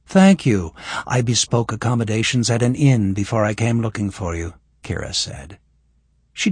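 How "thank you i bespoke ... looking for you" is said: lightly voiced young woman; Kira's voice. Voices Kira.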